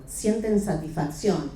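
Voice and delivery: "satisfacción" dicho lento y marcado, cada sílaba apoyada; énfasis en la palabra. Retold or imitated. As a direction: subraya "satisfacción" alargándola despacio. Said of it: "y enfatiza la palabra". (énfasis lento en "satisfacción")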